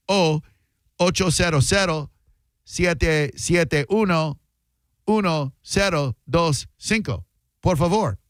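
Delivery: Spanish number read, ad style; mock Spanish ad read; Spanish accent. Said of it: "that sounded Hispanic".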